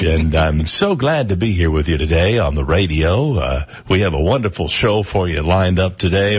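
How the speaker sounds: lightly voiced smooth disc jockey; imitating smooth DJ. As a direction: croon it like a seventies DJ, a touch. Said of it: "he had a real D J voice".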